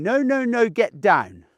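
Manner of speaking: high 'no, no, no', dropping on 'get down'; mild sing-song telling-off; owner's gentle reprimand. Shown as a demonstration. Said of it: "back to the tone of voice, you're saying".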